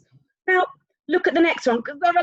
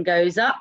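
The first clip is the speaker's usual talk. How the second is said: UP stretched and sliding upward; drawn-out, rising UP; rising pitch; 5 semitones lower than usual. Shown as a demonstration. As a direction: let the voice climb slowly on UP. Voice follows the rising line.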